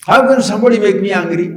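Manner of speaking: fast, laughing disbelief; amused rhetorical question. Shown as a demonstration. Teacher to listeners, laughing at the idea of being made angry. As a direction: scoff it with a laugh. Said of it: "repeats the line differently".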